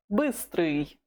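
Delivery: Быстрый with a distinct ы in the first syllable; Russian ы sound. Shown as a demonstration. Teacher repeats Быстрый after noting the sound, clear ы. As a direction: model the ы vowel in Быстрый. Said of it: "Note this U sound".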